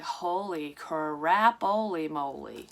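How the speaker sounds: slow, drawn-out silly exclamation; goofy exclamation. Retold or imitated. After escaping the gunman in her dream, slow goofy relief. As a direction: stretch it out like a cartoon gasp of relief.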